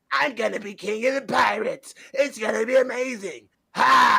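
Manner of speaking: bad English anime dub voice, high, rough and creaky. Mocking how the English dub sounds: imitating Luffy's English dub voice. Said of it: "And Luffy sounds like this".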